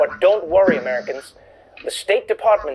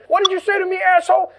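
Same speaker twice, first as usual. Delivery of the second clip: higher, hammed-up aggressive challenge; mock angry passenger; 11 semitones higher than usual. Comedian acting a brawling flyer, mock angry high voice. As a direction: squeak out a fake tough-guy threat.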